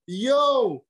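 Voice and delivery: high-pitched excited yelp, retold; thrilled disbelief. On getting the network's email back, a high excited yelp. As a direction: pitch leaps way up in giddy disbelief. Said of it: "I was like".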